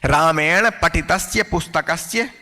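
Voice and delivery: slow, even reading of the whole phrase. Shown as a demonstration. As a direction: read the phrase through once at a steady pace. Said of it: "teacher reads the new example".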